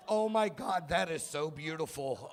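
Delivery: hammed-up proud parent; dad overcome by his son's first joke; mock gushing. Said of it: "I was like".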